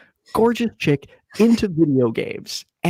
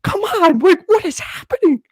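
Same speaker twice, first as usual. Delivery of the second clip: mock exasperation; 4 dB louder than usual. Frustrated in retold scene.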